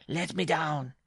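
high-pitched enraged dwarf; furious scream. A narrator's reading. Dwarf held on bride's shoulder, furious high cry. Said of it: "screamed in a paroxysm of fury".

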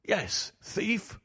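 restrained roar, pitch jumping up on the accusation; narrated anger without real volume. A narrator's reading. Father shaking son by the shoulder, understated roar. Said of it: "I roared".

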